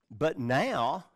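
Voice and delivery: "now" stressed and left rising; emphasized. Shown as a demonstration. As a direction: lean on "now" and hold it up. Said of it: "and that's emphasized".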